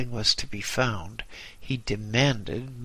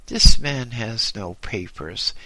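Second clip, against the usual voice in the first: angry order; 8 dB louder than usual. A narrator's reading. Angry official orders deportation.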